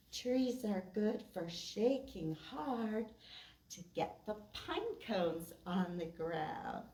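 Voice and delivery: measured, sing-song poem reading; rhythmic read-aloud for kids; poem recitation. Acted. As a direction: recite a children's poem with a steady beat.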